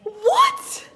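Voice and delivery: high, loud startled what; real surprise. Real, not acted. Woman reading the second test, startled loud disbelief. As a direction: jolt of disbelief.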